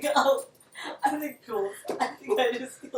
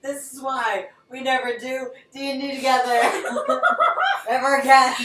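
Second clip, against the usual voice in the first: laughing; 4 semitones higher, 9 dB louder than usual. Real, not acted. Laughing while speaking.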